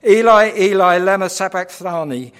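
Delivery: loud anguished cry in Aramaic; Eli, Eli cried aloud. Acted. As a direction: call out to God, loud and torn. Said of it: "cried out with a loud voice".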